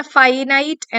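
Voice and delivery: "ഫൈനൈറ്റ്" said as fie-nite, both long i; spelling pronunciation. Shown as a demonstration. Teacher giving students a spelling memory aid, spelling pronunciation. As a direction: sound out "ഫൈനൈറ്റ്" like the word finite. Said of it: "എന്നുള്ള രീതിയിൽ".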